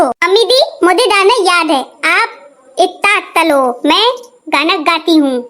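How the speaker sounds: put-on childlike lisp with softened consonants; tongue-tied daughter-in-law; lisping baby talk. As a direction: lisp it like a toddler. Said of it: "तोतली भाभी की जय हो".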